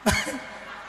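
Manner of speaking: quiet rising chuckle; a small laugh; soft laugh. Real, not acted. Laughter alone. (cười khẽ)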